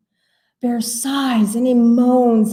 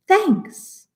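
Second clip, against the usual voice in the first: bear voice; 11 semitones higher than usual. Acted. Bear's line.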